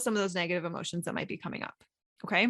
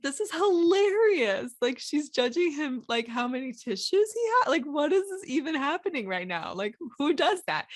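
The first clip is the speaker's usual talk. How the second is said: amused onlookers; 4 semitones higher than usual. Retold or imitated. Amused theatre-box critics watching her judge the husband, delighted. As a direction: revel in the absurdity of it. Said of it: "the people in the box be like".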